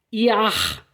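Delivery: Jahr said iax, J as I, throaty final r; scene: teacher models German J like I in Jahr. Shown as a demonstration. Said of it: "o J tem som de I".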